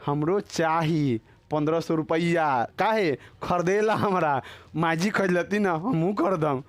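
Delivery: lightly hammed-up wife, stretched-out words; mock melodramatic demand. Wife demanding a sari at home, mock melodramatic fuss. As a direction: imitate a wife making a scene, drawing out the demand. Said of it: "अब घरे जाके नौटंकी करेगी".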